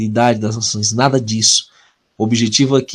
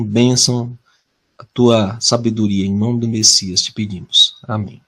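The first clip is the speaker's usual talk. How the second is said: earnest prayer voice, steady and reverent; opening prayer. Acted. Preacher praying to open the Tuesday prophecy study, reverent. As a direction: pray over the study before it begins.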